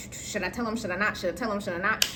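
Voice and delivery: low, quick inner debate, softened; back and forth. Acted. Storyteller debating in their head whether to tell, low and quiet. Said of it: "going back and forth in my head".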